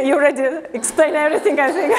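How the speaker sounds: talking through a light laugh, quick and high. Real, not acted. Guest artist laughing after the host's introduction. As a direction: laugh it off, a bit bashful.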